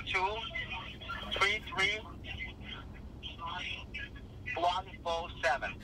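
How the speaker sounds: digits in short separate chunks; careful dictation of the digits; slow chunked repeat. Shown as a demonstration. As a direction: spell it back piece by piece. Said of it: "repeat that back again".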